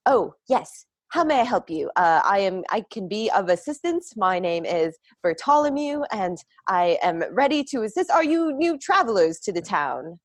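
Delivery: lightly voiced eager, nervous lad; a hint of a stiff young messenger offering help; nervous adolescent. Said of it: "nervous adolescent energy".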